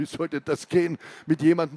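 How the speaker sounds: chuckling driver's voice; a light laugh into the words; amused. Acted. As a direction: driver amused by the cramped trunk. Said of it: "Erheitert die Stimme des Fahrers".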